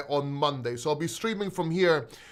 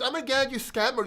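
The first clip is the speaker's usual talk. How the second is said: mock commenter; 6 semitones higher than usual. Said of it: "they just comment".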